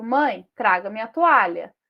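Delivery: "Mãe" set apart as a direct address; vocative. Shown as a demonstration. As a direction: call on "Mãe", then make the slow request. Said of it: "lembra o vocativo?". ("Mãe" como vocativo, chamando)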